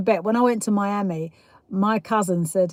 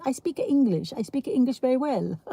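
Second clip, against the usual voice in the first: put-on comic Spanish-accented English, pitched higher; Manuel; 4 semitones higher than usual.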